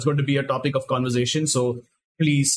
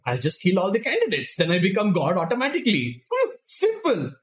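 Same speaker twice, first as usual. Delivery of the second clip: lightly voiced villain, pitch leaping up at the end; scheming villain quote; 4 semitones higher than usual. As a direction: act out a blithely simple plan. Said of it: "So he was like".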